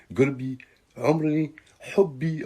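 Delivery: a light mock of a cooing girlfriend; mocking sweet-talking girl. Mocking girls who coo pet names in Arabic. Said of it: "les meufs qui parlent comme ça".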